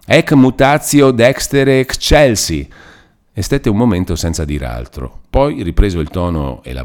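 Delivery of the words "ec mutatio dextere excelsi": high, slow, awestruck proclamation; ecstatic chaplain. A narrator's reading. The stunned chaplain tells the priests, high and ecstatic. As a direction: announce it dazed with wonder. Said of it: "con la bocca tuttavia aperta ... estasi".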